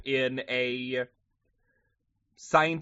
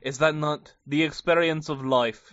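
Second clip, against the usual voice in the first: badly faked French accent; French accent slipping into something else; half-hearted go at a French accent; attempted French accent. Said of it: "I cannot do a French accent".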